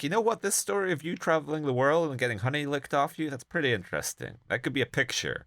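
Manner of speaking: high, fast schmoozing producer pitch; hammed-up sleazeball talent scout; mock Hollywood charmer, high and fast; sleazy Hollywood producer. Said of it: "gonna be like".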